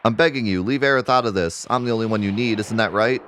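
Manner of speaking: anxious mother's entreaty; desperate pleading. Acted. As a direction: beg him to spare your child. Mother pleads with villain for baby.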